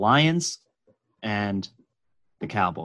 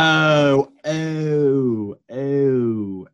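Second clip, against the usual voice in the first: dawning realization; 3 semitones higher, 4 dB louder, much slower than usual. Real, not acted. Realizing the date, drawn-out oh.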